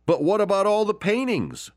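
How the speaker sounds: very high, startled voice from the crowd; high-pitched astonished bidder; bewildered question. Acted. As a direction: ask in disbelief. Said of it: "someone asked".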